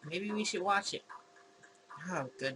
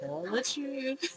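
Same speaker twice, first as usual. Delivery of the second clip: slow, prodding demand; 7 semitones higher, much slower than usual. Acted. Pressing Mike about the casserole.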